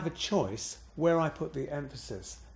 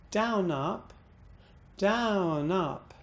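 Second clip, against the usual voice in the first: trace the words with the pitch, "down" falling and "up" rising; down-up pattern; 4 semitones higher, much slower than usual. Shown as a demonstration. Teacher tracing the list tune, down then up. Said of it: "recognize the pattern".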